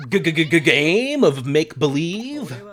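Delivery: slow stammer on the first word, laughing; stuttering disbelief. Acted. Echoing the friend's line in stammering disbelief. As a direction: sputter it back in shock.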